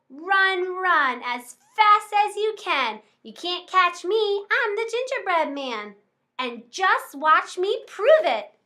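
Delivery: high, slow sing-song taunt; taunting yell. Acted. Gingerbread man taunting the old couple, high sing-song. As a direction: tease them as you run. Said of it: "he yelled".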